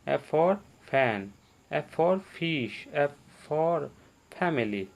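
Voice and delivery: "F for fan", "fish", "family" drawn out slowly, each opening on फ; slow alphabet drill, "F for fan", with a clear फ; फ sound demo. Shown as a demonstration. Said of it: "फ की sound निकल रही है ना".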